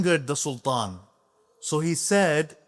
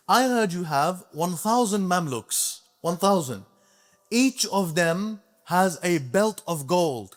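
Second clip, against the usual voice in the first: higher, firmer scholar confronting the king; bold rebuke; 4 semitones higher, slower than usual. Retold or imitated. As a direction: speak up boldly to the sultan. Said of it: "he spoke to him like this".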